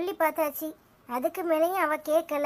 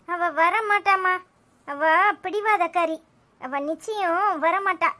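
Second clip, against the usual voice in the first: slow firm insistence; slower than usual. Acted.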